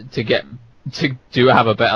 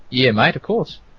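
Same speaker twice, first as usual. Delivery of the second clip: fairly good put-on Australian accent. Asked on a podcast to do an Australian accent, Australian accent. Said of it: "Can you do an Australian accent".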